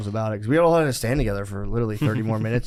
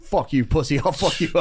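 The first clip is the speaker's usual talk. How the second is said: higher-pitched retold outburst; mock threat; 4 semitones higher than usual. Traveler threatens the man in line, mock outburst rising in pitch. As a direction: act out losing it, pitch climbing. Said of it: "I was ready to go to jail".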